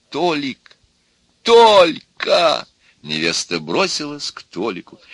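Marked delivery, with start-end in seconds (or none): 0.1-2.7 high, building cry; calling out. A narrator's reading. Bride rushing to her suitor, excited cry. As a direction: call the name, then cry it louder.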